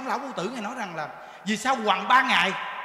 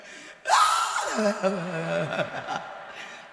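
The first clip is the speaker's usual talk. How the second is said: mock sob; 3 semitones lower than usual. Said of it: "Nó khóc kinh khủng lắm".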